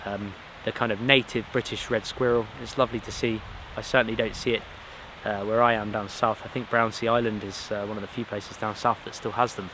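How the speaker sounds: stuffy nose from a cold; blocked nose. Real, not acted. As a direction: talk through a clogged-up nose. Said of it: "I do sound a bit, uh, clogged up in my nose".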